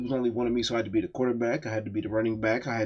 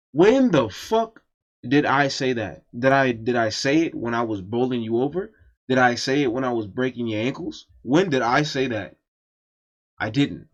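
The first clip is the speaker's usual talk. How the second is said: indignant retort; 4 dB louder than usual. Retold or imitated. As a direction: fire back at a false accusation. Indignantly answering the false accusation.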